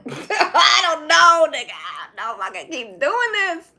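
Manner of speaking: high, loud, drawn-out laughing wail; hammed-up breakdown, stretched and loud; exasperated comic wail. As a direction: wail it through laughter, at your limit.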